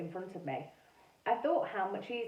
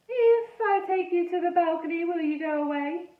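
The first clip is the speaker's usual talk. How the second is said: put-on funny French-ish accent; 9 semitones higher, 6 dB louder than usual. A narrator's reading. Ghost boy Edmund speaking.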